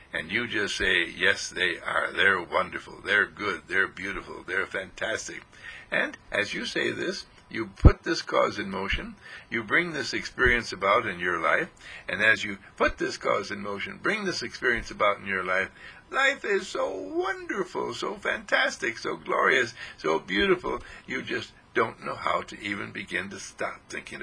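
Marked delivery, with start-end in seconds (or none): 1.0-5.4 reassuring reply to gloomy circumstances; calm affirmation. Pretend. Calm affirming answer, lower. 16.1-20.8 soar with delight; joyful exclamation about life; rapturous. Real, not acted.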